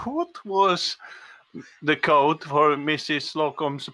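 careful repeat. Acted. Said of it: "Say it again".

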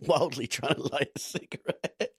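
words breaking into laughter; laughing. Real, not acted. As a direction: laugh through the line, amused by the image. Amused at the crash image.

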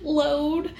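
sugary, eager-to-please offer; really sweet. Retold or imitated. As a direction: sweeten it up to win her over. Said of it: "start off really sweet".

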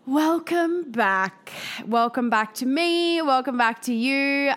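stuffy, nasal from the flu; blocked nose voice. Real, not acted. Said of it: "I sound a little bit nasally".

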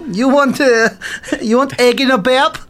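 high, chirpy character voice; Sonia voice. Acted. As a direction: pitch it up for Sonia. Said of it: "what's Sonia gonna talk like".

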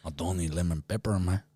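light mock Scarface accent; a hint of a movie gangster's accent. Trying an accent over lemon pepper tuna, mock Scarface. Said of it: "I went Scarface".

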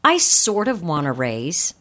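low, tentative, rising at the end; weak hedging. Shown as a demonstration. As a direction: hedge it, lifting the ending like a question. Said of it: "the words that weaken".

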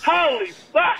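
loud, high mock shock; shocked realisation. Client realising what she meant, loud mock shock. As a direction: exclaim it as the penny drops. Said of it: "he's like".

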